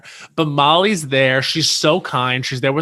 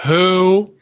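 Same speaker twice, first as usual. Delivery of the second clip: diva voice; 4 semitones higher, 5 dB louder than usual. Retold or imitated. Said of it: "Countess just turns and goes".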